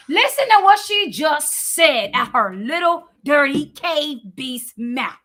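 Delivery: loud, scornful outburst slowing at the end; indignant outburst. Real, not acted. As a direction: hit it hard in outrage, then drag out the insult. Indignant at the played remark.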